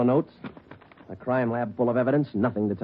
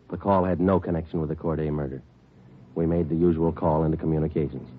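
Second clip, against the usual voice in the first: crime narration. A narrator's reading. Detective narrates the case.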